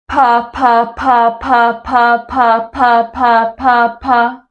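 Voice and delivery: crisp over-articulated pa syllables in an even beat; clear pa drill. Shown as a demonstration. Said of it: "say pa ten times".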